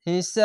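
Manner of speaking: "হিসাব" with a three-beat aa and bouncing b; madd then qalqala. Shown as a demonstration. Teacher demonstrating stretch before qalqala on "হিসাব". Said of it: "তিন আলিফ টেনে কলকলা".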